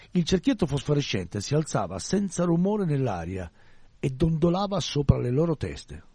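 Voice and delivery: unhurried, hushed storytelling; story narration. A narrator's reading. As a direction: let the eerie scene unfold slowly.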